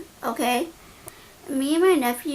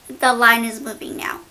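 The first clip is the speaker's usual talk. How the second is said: imitating rude attitude, louder; louder mock order with some attitude; stank-ass attitude; 7 dB louder than usual. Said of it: "with a stank-ass attitude".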